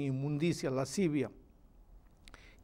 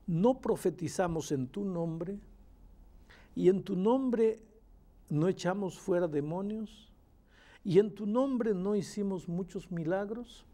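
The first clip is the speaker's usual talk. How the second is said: slow, raised questions with pauses; pleading followers' questions; 3 semitones higher than usual. Acted. Preacher voices the many addressing Christ, slow questioning plea. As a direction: draw out each plea as a question. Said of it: "Muchos me dirán en aquel día".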